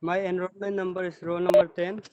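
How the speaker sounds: speaking up clearly. Real, not acted. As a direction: project to the class. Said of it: "your voice is very low".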